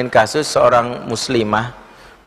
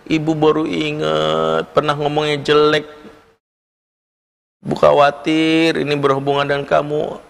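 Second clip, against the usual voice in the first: mother crying; 4 semitones higher than usual. Retold or imitated. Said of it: "akhirnya ibu ini nangis".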